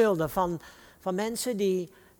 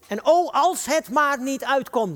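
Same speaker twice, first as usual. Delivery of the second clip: higher, louder, slow fretting; anxious inner thought; 5 semitones higher, 5 dB louder, slower than usual. Acted. David fretting to himself over his hidden sin, anxious. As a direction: voice a worried thought, drawn out and raised.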